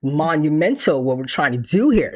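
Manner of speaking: low, soft, pretentious murmur; mock artsy whisper. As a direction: imitate a deep-thinking artist type. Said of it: "they talk like this".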